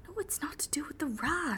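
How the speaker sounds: exasperated whisper. Acted. Driver exasperated denial.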